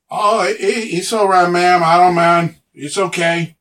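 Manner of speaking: lightly voiced orc, apologetic and insistent; deferential orc. Orc excusing himself to a ma'am, deferential. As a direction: reassure her a bit loudly, stumbling at the start.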